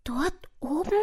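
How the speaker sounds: small, high, timid mouse voice; ängstliche Maus. A narrator's reading. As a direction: ask it fearfully, very high. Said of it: "ängstlich sah die Maus". (ängstlich, mit hohem Mäusestimmchen)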